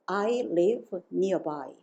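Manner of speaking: very slow, every word spaced out; slow model sentence. Shown as a demonstration. Teacher spells out the answer slowly for the class. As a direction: read it slowly for students to copy. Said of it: "이거 어떻게 하죠?".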